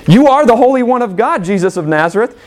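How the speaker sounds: the demon's high, taunting cry; mocking demon. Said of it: "This is who Jesus is".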